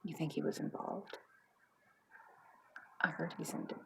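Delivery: nosy wife speculating softly; hushed gossip. Acted. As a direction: share juicy gossip under your breath. Wife gossiping about the neighbour.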